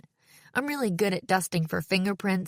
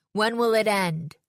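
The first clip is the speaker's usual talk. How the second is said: raised, forceful cry in one run; guttural slam poetry; 3 semitones higher, 4 dB louder than usual. A narrator's reading. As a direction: demand it of the audience as a poet. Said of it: "guttural voice I never would have recognized".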